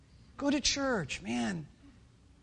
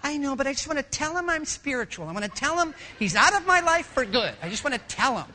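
high, insistent excuse; pleading protest; 5 semitones higher, 4 dB louder than usual. Acted. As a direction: argue back, wanting your way. Woman argues back with inner voice.

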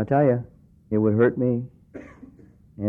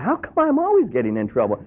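sincere self-question; 4 semitones higher than usual. Shown as a demonstration. Preacher showing the honest question, sincere. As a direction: ask it of yourself in earnest. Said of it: "you ought to be asking yourself that".

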